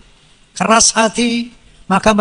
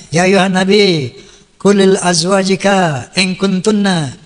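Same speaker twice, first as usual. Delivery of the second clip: Quranic recitation; 2 semitones lower than usual. Acted. Quoting Quran verse.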